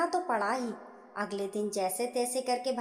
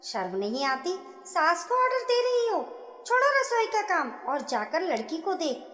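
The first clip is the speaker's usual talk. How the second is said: sharp, raised, higher indignant saas; how dare you, scolding; mother-in-law rebuking bahu for giving orders, raised; 5 semitones higher than usual. Acted.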